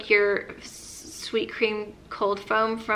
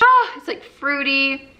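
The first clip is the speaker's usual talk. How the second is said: delighted; 4 semitones higher, 5 dB louder than usual. Real, not acted. Gushing over the scent.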